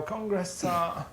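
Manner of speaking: slow, deliberate Congress tart; slow code word. Shown as a demonstration. Hostage giving the code word, slow and deliberate. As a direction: spell out each word of "Congress tart" carefully. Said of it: "you go".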